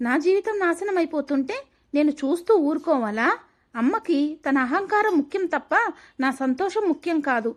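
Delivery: pleading indignation, pitch lifted; upset protest. Acted. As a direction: protest in distress without raising the volume. Upset girl protests to her boyfriend.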